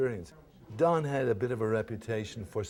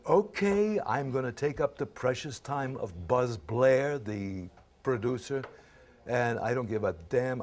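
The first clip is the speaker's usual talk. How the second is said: retold frustration; 2 semitones higher, 3 dB louder than usual. Frustrated actor deciding to take up the producer's time, mildly pissed. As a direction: act out fed-up resolve. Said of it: "I just was so frustrated, or you might say pissed".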